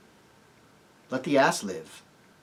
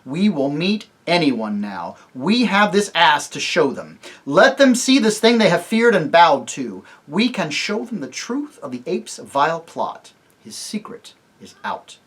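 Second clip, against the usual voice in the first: slow, louder triumphant declaration; rally the company; loud, rousing; 4 semitones higher, 8 dB louder, slower than usual. Acted. Tirian rouses his party aloud, no more whispering. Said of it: "not this time in a whisper".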